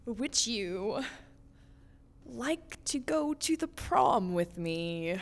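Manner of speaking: low, slow, hesitant asking; shy invitation. Acted. Girl asks skeleton to prom, shy and careful. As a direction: ask carefully with halting pauses.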